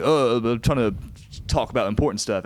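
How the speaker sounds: light mock southern accent. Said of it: "I did a southern accent".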